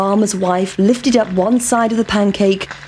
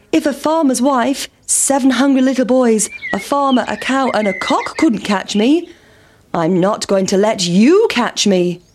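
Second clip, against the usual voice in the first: defiant pancake; 3 semitones higher than usual. Acted. Pancake taunting the farmer, defiant.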